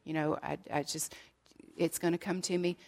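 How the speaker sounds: low, soft grumbling under the breath, words tumbling; mumbling to himself. Acted. Peter on the boat grumbling to himself, low mumbling. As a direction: mutter it like a discouraged fisherman talking to himself. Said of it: "I can just see Peter mumbling".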